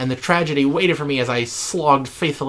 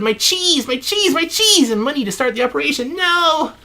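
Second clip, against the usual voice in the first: despairing wail; 9 semitones higher than usual. Acted. Journal writer mourns his stolen cheese, a rising wail. Wailing over his lost food.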